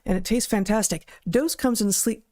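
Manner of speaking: steady sponsor read to listeners. Acted. Host reads a liver supplement ad to viewers, upbeat ad voice. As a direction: pitch the product like a host read.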